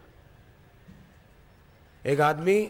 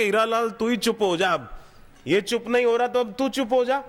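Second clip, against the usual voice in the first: higher, half-comic insistence; urging himself; 7 semitones higher than usual. Retold or imitated. Preacher acts out telling his own mind to calm down, higher. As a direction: plead with yourself, pitch up. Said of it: "अपने मन को समझा रहा हूं".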